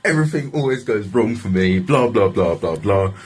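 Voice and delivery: mild retold rant; grumbling tirade that runs into blahs; ranting and raving. Man blaming his luck to security, mild ranting. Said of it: "proper ranting and raving".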